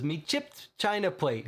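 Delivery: put-on a light Cockney accent; Cockney quote. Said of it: "He says".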